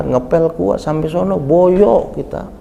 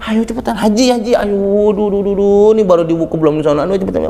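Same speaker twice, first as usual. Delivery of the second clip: flustered hurrying; 4 semitones higher than usual. Retold or imitated. Flustered guide rushing pilgrims.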